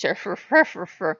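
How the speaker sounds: imitated fussy grumble in nonsense syllables; mock grumbling gibberish. God fussing over new decorations, mock grumbling. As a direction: rattle off wordless complaints.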